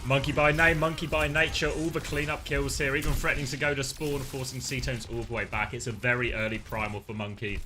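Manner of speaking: lively esports caster call; play-by-play. Acted. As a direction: call the action live. Live casting the match.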